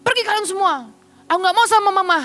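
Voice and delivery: a hint of a sulking child; imitated angry child. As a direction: repeat the son's angry outburst lightly. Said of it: "ceritanya lagi marah, emosi dia".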